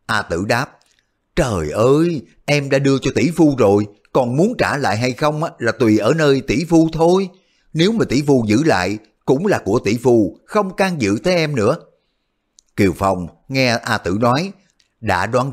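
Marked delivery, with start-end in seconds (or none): 1.4-11.8 put-on lightly higher girlish voice, teasing; a hint of a teasing young girl; A Tử, coy girl. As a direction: play the sly young sister-in-law coyly.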